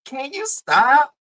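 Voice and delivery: high, slow plea, leaning on you; exasperated plea. Real, not acted. Begging the co-host to stop, high and slow. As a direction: really beg him to knock it off. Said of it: "I just wanna say".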